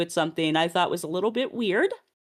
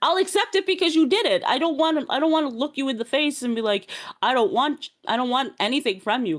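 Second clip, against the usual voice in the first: worked-up rant; 2 semitones higher than usual. Real, not acted. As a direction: rant as if fed up with explaining. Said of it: "I'm on a rant".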